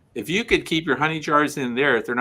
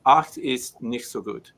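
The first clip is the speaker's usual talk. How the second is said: fake German. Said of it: "I'm making that up. That's not German, but I thought it would sound right".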